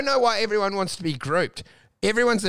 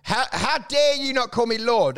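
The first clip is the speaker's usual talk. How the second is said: status-proud doctor; 3 semitones higher than usual. Acted. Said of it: "you got a status and you're like".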